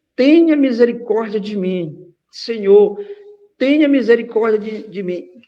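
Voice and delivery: crying out, loud shouted begging at full voice. Retelling a woman's plea to the Lord: imitating a woman shouting. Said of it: "Ela gritava".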